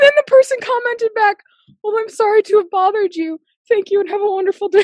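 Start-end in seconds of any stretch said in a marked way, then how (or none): 1.8-4.8 lightly imitated courteous reply, pitched up; mock-polite, higher voice; polite texter.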